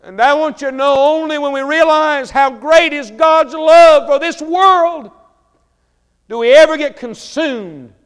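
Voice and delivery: high, booming pulpit cry, words drawn out; full-force preaching. Real, not acted. Preacher urging God's love on the congregation, full-force preaching. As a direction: preach it loud and impassioned, stretching the phrases.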